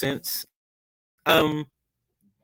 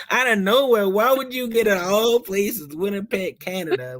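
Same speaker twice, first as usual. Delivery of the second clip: can't believe anyone would guess that; baffled disbelief; 6 semitones higher than usual. Real, not acted. At Hooters, told he sounds Canadian, baffled disbelief.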